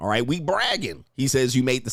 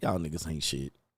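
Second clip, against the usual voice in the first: deeply let-down, disappointed, dismissive tone; 8 semitones lower, 9 dB quieter than usual. Retelling what Chill said to the kids: imitating Chill, disappointed. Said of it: "He was just so disappointed in us".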